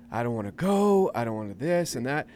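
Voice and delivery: mock meltdown of an eight-year-old; whining boy. Asher refusing to go to the penguins, mock whine. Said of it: "he just started breaking down".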